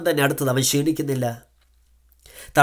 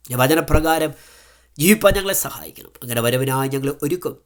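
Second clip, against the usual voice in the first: fervent spoken prayer to God; a pastor praying over his listeners; earnest prayer. Acted. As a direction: pray aloud for the listeners. Leads a prayer.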